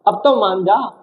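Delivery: mock pleading with promises of treats; coaxing. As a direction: play at winning over someone who is sulking. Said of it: "जैसे ये मना रहा है".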